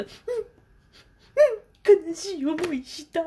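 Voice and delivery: high, drawn-out tearful voice; crying child. Retold or imitated. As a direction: imitate a sobbing six-year-old. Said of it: "もう泣きながらですけど".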